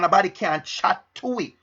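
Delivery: light Jamaican patois, said again; a touch of Jamaican patois. Shown as a demonstration. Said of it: "That's a Jamaican dialect".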